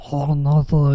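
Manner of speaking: garbled stuffed-up sounds; mock your own stuffy, tongue-tied speech; stuffy mumble. Shown as a demonstration. Speaker showing viewers how stuffed-up they sound, garbled mumble. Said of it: "I'm getting kinda stuffy, so I'm sounding all".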